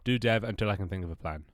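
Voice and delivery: blocked nose, bunged-up voice; talking through a stuffy nose. Real, not acted. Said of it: "I do sound really stuffy".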